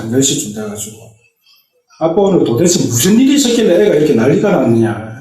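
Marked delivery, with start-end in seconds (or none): 2.0-5.2 agitated question. Retold or imitated. Wife calling late, puzzled.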